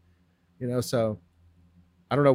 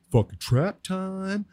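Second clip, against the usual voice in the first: drawn-out, higher, hyped-up 'trap time'; hyped declaration; 6 semitones higher, much slower than usual. Retold or imitated. Telling his friend about the lettuce plan, slow hyped-up declaration. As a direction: stretch it out like a battle cry, slowly.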